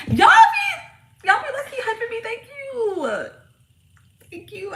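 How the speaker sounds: very high, loud laughing cry; laughing shout. Real, not acted. Thanking viewers who hype her up, high laughing squeal.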